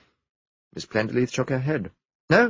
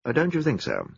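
slightly ironic; 4 semitones higher than usual. Acted. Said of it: "Her tone was slightly ironic".

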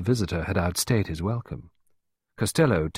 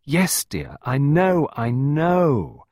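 drawn-out, raised comforting tone; soothing; 7 semitones higher, 6 dB louder, much slower than usual. A narrator's reading. Clarissa comforting desperate Pippa, soothing. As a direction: soothe a distraught child. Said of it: "Clarissa murmured soothingly".

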